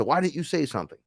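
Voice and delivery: high-pitched retold complaint; exasperated protest. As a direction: act out an indignant whine of protest. Acted protest to higher self.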